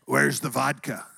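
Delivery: put-on slow Russian accent; mock Russian-accented greeting; Mike the Russian. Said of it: "he always talks like this".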